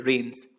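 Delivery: रेन्स with the final s clearly heard; final s sounded. Shown as a demonstration. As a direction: make sure the s at the end of रेन्स is heard. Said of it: "इसमें एस होना compulsory है". (रेन्स में आख़िरी एस साफ़ बोलें)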